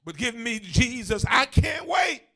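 rhythmic, building preacher's refrain; impassioned preaching. Real, not acted. Preacher urging the church to wave goodbye to troubles, impassioned. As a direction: preach it with rising fervor to a shouted finish.

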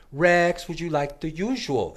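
high, bright call of a barista; little Hispanic voice. Retold or imitated. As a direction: call his name across the counter. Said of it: "in her little Hispanic voice".

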